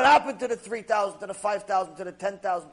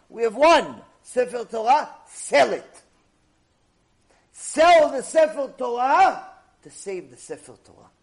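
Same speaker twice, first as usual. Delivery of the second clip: urgent rabbi's plea; 3 semitones higher, 9 dB louder than usual. Acted. Rabbi urges selling the Torah.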